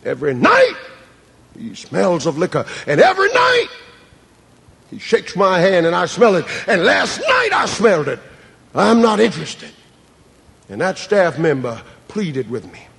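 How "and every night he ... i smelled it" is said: indignant outburst. Retold or imitated. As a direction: vent like a fed-up pastor. Preacher retells his own complaint.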